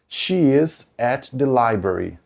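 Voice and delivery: careful, slowed English sentence; slow example read. Shown as a demonstration. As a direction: read slowly for the class. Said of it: "Por exemplo". (exemplo lido devagar)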